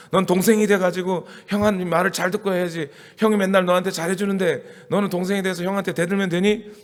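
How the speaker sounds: lightly acted parent telling off the younger child; 부모의 꾸중. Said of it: "그래서 막 야단을 쳐요". (가볍게 흉내 낸 부모의 꾸중)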